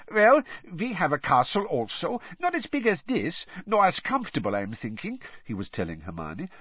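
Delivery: put-on earnest, heavy Eastern European accent; Krum's Bulgarian voice. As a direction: speak like a stiff young Bulgarian. Krum voiced in audiobook.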